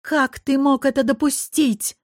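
put-on a rector furious at the old man; furious exclaim. A narrator's reading. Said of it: "яростно воскликнула Сабина". (яростно, громко и высоко)

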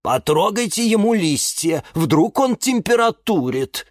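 worried helper. A narrator's reading. Acted worried advice in a story.

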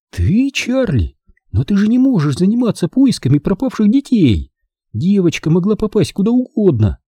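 high, incredulous mother; alarmed motherly objection; worried mother. A narrator's reading.

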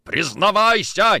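high, loud, drawn-out roar; enraged demand. Acted. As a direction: force a confession while strangling. Interrogator strangles suspect.

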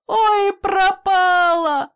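high slow wailing lament; loud drawn-out cry of despair. A narrator's reading. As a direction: cry out as if all is lost. Grandfather sees her enter fire.

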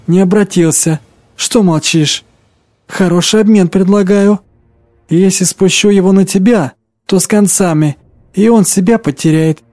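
witch bargaining, sly and menacing; a lightly voiced scheming witch; sly witch, coaxing. Witch Pasha bargains, threatens. (вкрадчивая ведьма)

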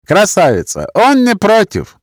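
put-on high, drawn-out Gypsy-accented coaxing; tipsy wheedling with Gypsy accent. A narrator's reading. Drunk coaxing a beauty, Gypsy accent. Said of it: "голос с цыганским акцентом".

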